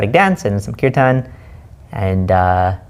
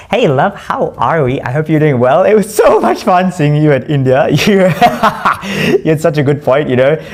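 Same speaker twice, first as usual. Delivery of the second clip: excited; 5 semitones higher, 5 dB louder than usual. Real, not acted. Voice message greeting a friend.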